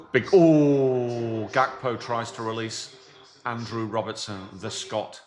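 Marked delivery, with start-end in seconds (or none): 0.1-1.5 excited. Real, not acted. Live match reaction.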